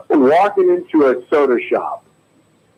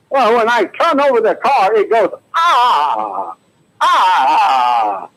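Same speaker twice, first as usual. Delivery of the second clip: higher shaky voice, drawn-out ah sounds; Katharine Hepburn; 5 semitones higher, much slower than usual. Acted. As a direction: stretch the engine noise out slowly. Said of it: "here's my impression of Katharine Hepburn".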